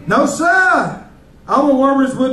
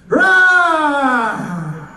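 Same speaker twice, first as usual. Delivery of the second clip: shouted lion roar. Pretend. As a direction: bellow it like a lion. Comic playing a roaring lion.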